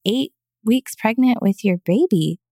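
a retold, stunned why would you do that; confused disbelief. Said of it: "I was so confused".

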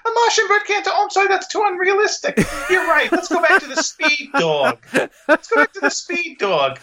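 very high cartoon bird with a Bronx accent; high-pitched comic creature from the Bronx; Bronx alien bird. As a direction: squeak a put-on sulky apology. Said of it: "It's having a Bronx accent".

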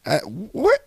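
high, loud, slow, hammed-up wonder; mock amazement. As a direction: marvel at a miracle, overdone. Discovering the tray cart.

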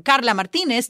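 Carla Martinez in a Spanish accent; Spanish-style Carla Martinez; Spanish pronunciation. Shown as a demonstration. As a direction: tap the R's in Carla Martinez. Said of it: "I went from".

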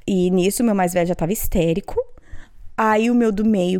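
normal talking voice

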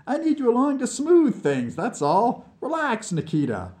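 persuasive Vlad. Acted. Vlad promising Nikita a share of the glory, lightly coaxing. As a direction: coax him along with lively pleading.

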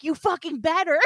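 high-pitched retold comeback; angry retort. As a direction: snap back at the cop in mock outrage. Retort to cop in retold row.

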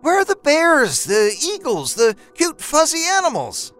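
angry wife. A narrator's reading. Wife scolding her husband about money, high angry rant. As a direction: let her tirade build.

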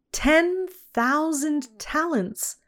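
slow, stunned disbelief; astonished exclamation. A narrator's reading. Lawyers stunned by the huge debt, slow astonished exclaim. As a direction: let each word land in disbelief. Lawyers struck dumb by sum.

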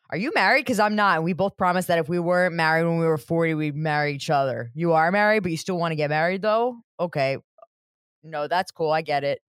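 mock eager phone call fading to resigned; Dawson. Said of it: "his voice is gonna change that dramatically".

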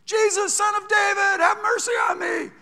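high, loud desperate shout; beggar's cry. Retold or imitated. Blind beggar shouting loudly for Jesus's mercy. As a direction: cry out to be heard over the crowd.

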